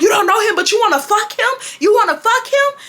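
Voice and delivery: high, outraged mother imitation; hammed-up incredulous interrogation. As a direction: fire it back as a furious mom. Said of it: "she starts getting louder".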